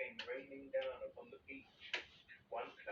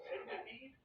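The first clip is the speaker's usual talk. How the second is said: yelling; 12 semitones higher than usual. A narrator's reading. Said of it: "yelled James".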